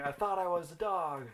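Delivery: imitating an overdramatic cry, not a full scream; mock scream. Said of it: "He's screaming".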